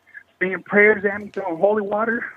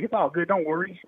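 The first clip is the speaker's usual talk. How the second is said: softer, soothing big brother; big brother reassurance; 6 dB quieter than usual. Retold or imitated. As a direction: quietly reassure younger kids like a big brother. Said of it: "that kind of big brother thing".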